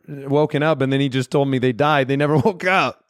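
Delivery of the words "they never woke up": laughing at something grim; guilty giggle at dark news; horrified amusement. Real, not acted. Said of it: "Why am I laughing at this?".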